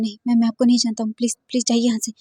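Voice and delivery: loud, fast frantic denial; shouting. Acted. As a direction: shout him out, quickly. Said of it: "वी जिंग बहुत ही कसकर चिल्लाता है". (तेज़, ज़ोरदार इनकार भरी चीख)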